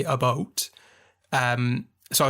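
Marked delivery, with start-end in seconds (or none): 0.0-0.7 "a boat" with a Canadian oh; about turned into "a boat". Retold or imitated. What the actor was told to say, Canadian "a boat". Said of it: "been told to say".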